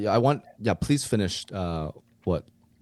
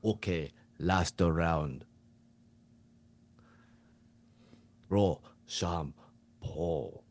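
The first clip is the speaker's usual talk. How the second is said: slow, deliberate Japanese coach; slower than usual. Acted. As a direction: pronounce it gravely in a put-on Japanese accent. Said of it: "you to be the Japanese coach".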